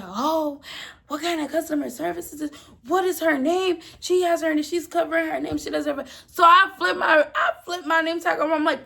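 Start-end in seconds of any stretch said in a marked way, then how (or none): 0.0-6.1 higher-pitched indignant customer; popping off. Retold or imitated. Indignant customer going off at the cashier about service, popping off. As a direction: imitate an outraged customer complaining. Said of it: "She pops off".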